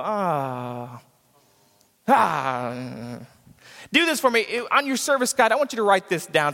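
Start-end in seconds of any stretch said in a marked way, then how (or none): 0.0-3.2 mock groan. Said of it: "so you guys can go".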